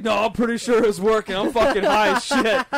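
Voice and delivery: stoned friend admitting he's high, laughing; laughing admission. Retold or imitated. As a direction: giggle out the confession.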